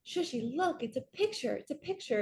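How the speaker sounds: put-on high, excited child calling her aunt; little niece voice. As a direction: call out to your aunt with a picture. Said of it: "if she would have come up and been like".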